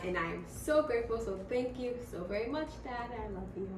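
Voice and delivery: soft, sincere thank-you; hushed, heartfelt thanks; overwhelmed gratitude. Real, not acted. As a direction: say it quietly and from the heart. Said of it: "I had an overwhelming of feelings".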